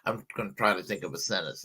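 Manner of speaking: ordinary talk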